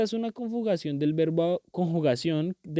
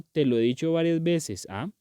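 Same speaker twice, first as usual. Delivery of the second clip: mild scolding. Shown as a demonstration. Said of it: "ya suena como un regaño".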